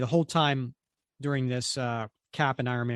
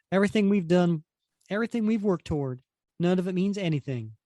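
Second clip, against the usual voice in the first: higher-pitched voice of mild dismay; mildly dismayed; 4 semitones higher than usual. Acted. Reader voices a young hero after Captain America's rebuff, mildly dismayed. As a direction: lament it lightly in a raised pitch.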